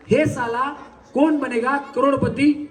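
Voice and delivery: slow, punchy Bollywood line with a laugh; loud filmy dialogue. Shown as a demonstration. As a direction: deliver it like a film hero, slowly. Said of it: "पहिल्यांदा मी म्हणून दाखवतो".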